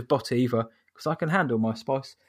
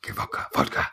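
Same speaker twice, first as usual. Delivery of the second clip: put-on Russian accent; 4 dB quieter than usual. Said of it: "stereotype of nation there".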